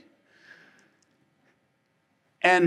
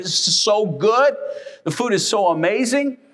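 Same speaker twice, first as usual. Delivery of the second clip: mock a guy gorging on dinner; savoring food with a full mouth; 3 semitones higher than usual.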